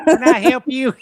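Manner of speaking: bad Chicago voice. Shown as a demonstration. Redoing the guard's line, hammed-up and high. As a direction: overdo the voice until it sounds bad. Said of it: "you sound like an old Southern".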